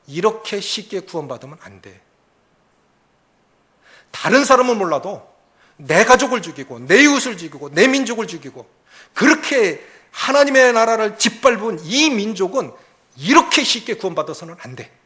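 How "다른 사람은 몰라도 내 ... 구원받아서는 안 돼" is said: loud, bitter protest; Jonah's indignant voice. Acted. Preacher voices Jonah refusing mercy for Nineveh, loud and bitter. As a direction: voice Jonah's outrage, loud and rising. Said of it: "이런 거예요".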